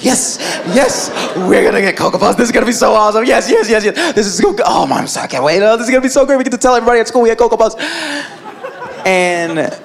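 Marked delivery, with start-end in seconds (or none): 0.0-7.8 mock gleeful kid chatter, tumbling out; lightly acted, rushing excitement; excited kids. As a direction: celebrate like children skipping round the house. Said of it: "skipping around".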